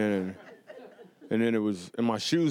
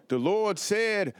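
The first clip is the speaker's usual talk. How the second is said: slow, shouted sermon line, pitched up; angry preacher; 7 semitones higher, much slower than usual. Retold or imitated. Comic imitating the angry church preacher shouting slowly. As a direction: bellow it like a preacher mad at the pews. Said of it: "He'd be like".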